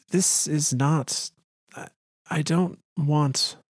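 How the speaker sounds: halting, slow, a touch choked; lightly voiced daughter holding back tears; fighting tears. Daughter struggling to tell her father, halting and near tears. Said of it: "She fought her emotions for control of her voice".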